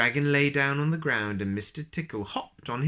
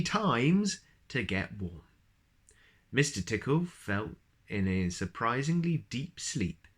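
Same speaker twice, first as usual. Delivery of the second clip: put-on reading a picture book to a child; story narration. A narrator's reading. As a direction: tell it gently like a bedtime story. Reads picture book aloud.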